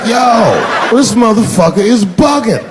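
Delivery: shouted disbelief at the TV; mock shocked outburst. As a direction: blurt it out like you can't believe it. Comedian quotes his own reaction.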